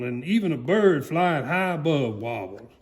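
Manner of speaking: plain reading voice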